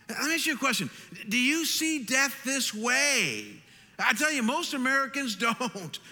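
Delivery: high-pitched preacher challenging the room; impassioned preaching. Acted. Preacher presses rhetorical question.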